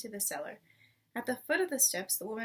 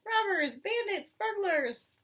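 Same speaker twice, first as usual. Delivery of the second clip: high, loud rat shrieks; the rat yelling after the fleeing thieves; shrieking rat; 8 semitones higher, 4 dB louder, slower than usual. Acted. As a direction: shriek each insult after them. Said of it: "shrieked the rat".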